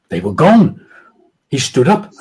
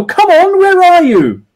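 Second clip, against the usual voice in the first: high, louder frantic call; panicking; 5 dB louder, slower than usual. A narrator's reading. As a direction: beg them to show up. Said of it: "His voice was panic-fueled now".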